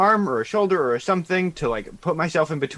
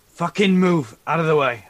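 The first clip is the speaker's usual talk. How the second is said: shouting; 3 semitones higher, 6 dB louder than usual. Acted. Player yelling in character.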